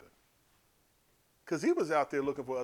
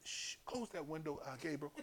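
much softer, offhand; a TV watcher hushing the noise; hushed order; 12 dB quieter than usual. Retold or imitated. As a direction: shush and wave it away.

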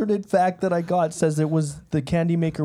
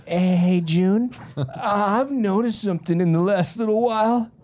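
lightly raised, put-on old man; old neighbor voice; 3 semitones higher than usual. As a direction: play a nosy old guy, half-laughing. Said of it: "What are these voices?".

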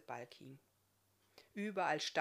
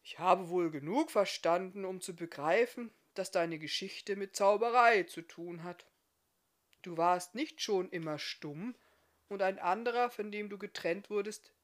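mildly grumbling smith; 5 dB louder than usual. Acted. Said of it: "brummte der Schmied".

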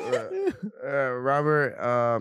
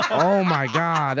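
laughing; 2 semitones higher, 3 dB louder, much slower than usual. Real, not acted. Laughing shock.

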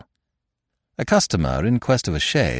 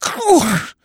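broken groan; 3 dB louder than usual. Acted. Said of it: "muttered Mister Keeble brokenly".

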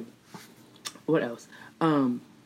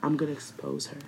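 quoted threat; 7 dB quieter than usual. Retold or imitated. Quoting the YouTuber's threat.

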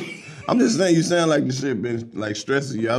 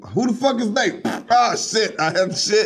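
put-on high startled baby voice; a baby spooked by strangers; baby's inner voice; 7 semitones higher than usual. Voicing the baby meeting strange visitors, high and startled.

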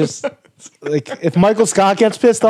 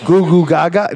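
put-on baby babble. Shown as a demonstration. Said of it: "I don't even know how babies sound".

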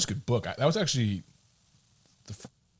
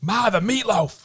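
put-on kid voice; 10 semitones higher, slower than usual. Kid calling out to mom.

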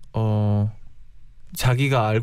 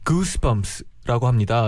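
slow teaching voice; much slower than usual. Shown as a demonstration. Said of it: "영어로도 그런 표현이 있나요?".

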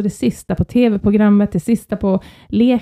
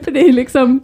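ordinary delivery

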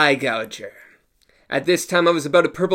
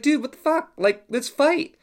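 exasperated; 9 semitones higher than usual. Retold or imitated. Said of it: "And I was like".

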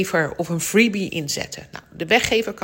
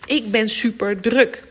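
anxious listener; 8 semitones higher, 4 dB louder than usual. Retold or imitated. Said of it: "hè, zou je zeggen?".

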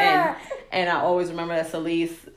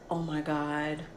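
very soft, anxious inner voice; softly fretting over saying love; nervous whisper to herself; 4 semitones lower, 13 dB quieter than usual. Retold or imitated. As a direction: hush it as if he might hear. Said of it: "this is me".

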